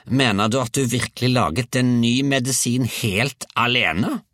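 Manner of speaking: high, incredulous call; grandmother's shout. A narrator's reading. Grandmother questions boy from the roof, high shout. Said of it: "ropte hun".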